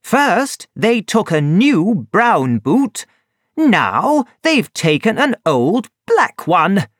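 acted outrage, not a full shout; angry complaint. A narrator's reading. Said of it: "he shouted angrily".

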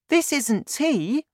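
put-on high, slow boy voice; high-pitched, earnest boy; George, protesting. A narrator's reading. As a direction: insist slowly as a worried child.

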